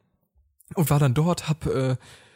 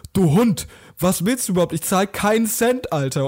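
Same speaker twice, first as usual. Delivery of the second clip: retold angry outburst; 2 semitones higher, 4 dB louder than usual. Retold bar quarrel, insulting waiter.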